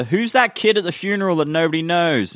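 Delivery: high-pitched imitation of curious viewers; mock puzzled question. Voicing viewers wondering about the funeral, mock puzzled. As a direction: put the question up high, as if quoting everyone.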